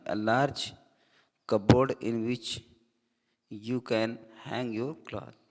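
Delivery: slow, careful reading of an English definition. Shown as a demonstration. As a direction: read it out word by word for the class. Reads English definition slowly. (परिभाषा धीरे-धीरे पढ़कर सुनाना)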